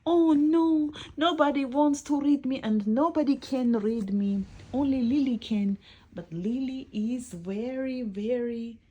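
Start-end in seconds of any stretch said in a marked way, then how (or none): 0.1-5.8 high, mock-tearful wail; hammed-up dismay, higher voice; crying book. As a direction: lament it as the upset little book, without real sobs. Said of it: "the book start crying again".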